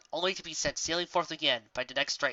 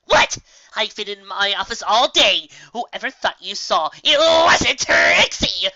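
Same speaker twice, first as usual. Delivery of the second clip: much higher and loud, dragging the last words; panicked blurting; 6 semitones higher, 11 dB louder, slower than usual. Acted. Trixie denying to furious Raindrops, panicked. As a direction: blurt out a guilty denial. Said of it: "blurted the unicorn in a barely coherent panic".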